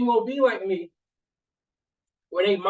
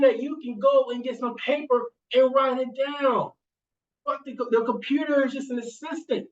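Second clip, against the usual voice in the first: higher, insistent, building to a shout; heated pep talk; 4 semitones higher than usual. Retold or imitated. Uncle urging his niece over the phone, heated and insistent. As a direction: fire her up to grab pen and paper.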